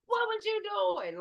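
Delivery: high sharp scolding mother voice; imitating grandma's high yell; mock angry grandma. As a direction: snap it like a furious grandma. Retold grandmother scolding mid-beating.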